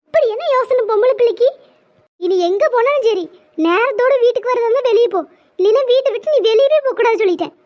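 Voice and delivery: put-on stern telling-off of a girl home late; scolding. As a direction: lay down the rule, scolding. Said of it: "இன்னும் பிடிச்சி ஏசிக்கிட்டு இருக்க". (கண்டிப்பாகத் திட்டும் குரல்)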